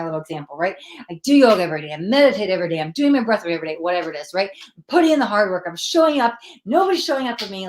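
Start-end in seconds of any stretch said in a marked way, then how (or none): 1.1-3.8 louder, a hint of an exasperated client; mock frustration. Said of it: "I'm a little frustrated". 4.8-7.7 louder and higher, a hint of a fed-up client; mock frustration. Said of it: "I'm a little frustrated".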